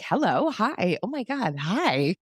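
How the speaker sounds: high, excited greeting; gushing hello. Retold or imitated. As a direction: gush back at everyone. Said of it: "you're like".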